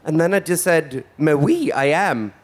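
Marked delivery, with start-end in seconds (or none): 1.2-2.3 put-on lightly French-accented reply; playful hint of a French accent. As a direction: answer with a touch of French accent. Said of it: "Why do you have a French accent".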